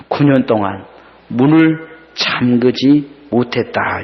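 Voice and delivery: low, gentle reassurance; tender mother. Retold or imitated. Mother confessing her love to daughter.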